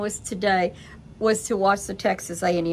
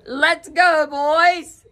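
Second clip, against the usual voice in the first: calling the dogs; 7 semitones higher, 7 dB louder, much slower than usual. Retold or imitated. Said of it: "They know".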